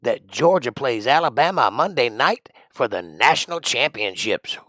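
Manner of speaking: booming sports radio shout-out. Pretend. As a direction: hype it up like a morning DJ.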